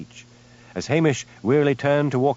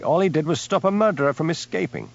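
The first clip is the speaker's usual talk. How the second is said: furious; 7 semitones higher than usual. A narrator's reading. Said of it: "demanded Hamish furiously".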